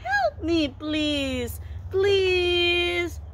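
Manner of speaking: very high little pig voice; high-pitched puppet in mock distress; pig crying for help. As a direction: squeal a pretend plea for help. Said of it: "The pig said".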